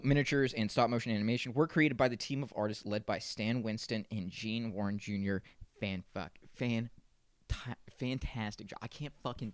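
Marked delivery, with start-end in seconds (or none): 5.8-8.8 tripping over words; stuttering. Real, not acted. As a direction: stumble and restart the word. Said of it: "I'm stuttering a lot".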